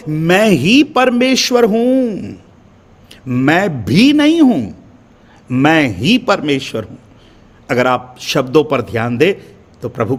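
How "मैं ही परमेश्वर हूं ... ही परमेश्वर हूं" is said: ही pressed out slowly; stress on ही. Acted. Preacher voicing God, ही drawn out slowly. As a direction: lean slowly on ही. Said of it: "कहता है".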